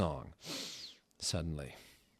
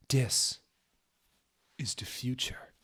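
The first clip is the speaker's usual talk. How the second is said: hushed whisper; 5 semitones higher than usual. Acted. Whispered reply.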